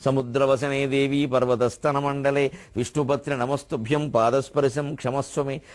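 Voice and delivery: measured prayer-verse recitation; Sanskrit shloka recitation. Retold or imitated. Poet praying to Mother Earth on rising, evenly recited shloka.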